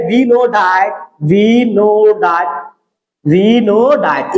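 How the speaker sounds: drawn-out, deliberate words; stretched-out classroom dictation; slow dictation. Real, not acted. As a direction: repeat it slowly for note-takers. Slow repeated lead-in while writing.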